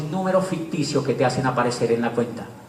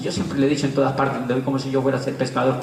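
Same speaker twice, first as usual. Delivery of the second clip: usual speaking voice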